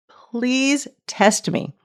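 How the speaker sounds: slow, pleading plea to be tested; pleading God. Retold or imitated. God pleading with his people, slow and earnest. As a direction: plead slowly like God begging. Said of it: "There's, like, a pleading by God".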